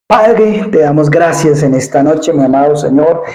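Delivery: reverent closing prayer to the Father. Acted. Pastor closes the sermon thanking God, prayerful.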